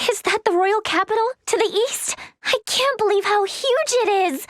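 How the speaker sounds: wide-eyed amazement; amazed. Acted. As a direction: marvel at a huge sight. First sight of the capital.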